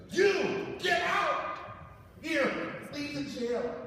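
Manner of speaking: high, slow, loud shout; mock referee ejection. Referee throwing the pastor out, loud mock yell. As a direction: order him out like an angry ref.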